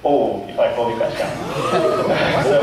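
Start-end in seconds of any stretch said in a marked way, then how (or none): 1.4-2.4 short sheepish laugh. Real, not acted. Jokes about feeling old.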